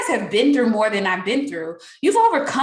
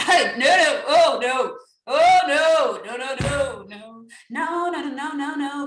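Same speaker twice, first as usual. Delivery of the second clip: laughing refusal; 3 semitones higher, 4 dB louder, slower than usual. Acted. Laughing refusal, sung no's.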